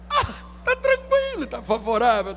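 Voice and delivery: a lightly hammed-up singsong angel; mock sing-song angel. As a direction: sing out the catchphrase, mocking. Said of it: "mocking singsong".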